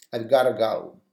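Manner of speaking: "gotta" run together, falling; casual gotta. Shown as a demonstration. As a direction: say it the relaxed spoken way. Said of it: "I've got to go".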